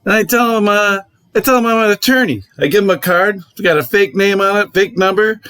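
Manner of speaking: imitating the Boston neighbor's sly bragging; Boston accent. Neighbor explaining his fake attorney trick in a mock Boston accent. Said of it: "He's got this Boston accent that's great".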